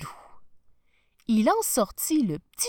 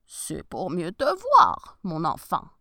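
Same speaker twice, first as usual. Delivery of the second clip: wolf voice; 3 semitones lower, 5 dB louder than usual. Acted. Wolf disguised as grandmother.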